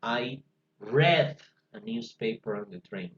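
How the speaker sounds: "read" pronounced "red", rhyming with bed; past tense read. Shown as a demonstration. Teacher shows the class how past "read" sounds. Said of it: "Miren cómo le voy a leer yo en pasado".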